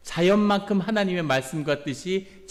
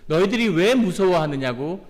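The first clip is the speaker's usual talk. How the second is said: gentle reproach; 2 semitones higher, 5 dB louder than usual. Retold or imitated. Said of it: "예수님이 뭐라고 말씀하시냐면".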